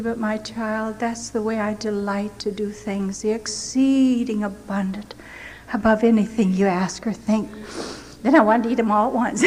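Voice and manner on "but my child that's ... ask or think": sweetly. Retold or imitated. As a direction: speak like a loving father to a child. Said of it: "So sweetly the Lord said to me".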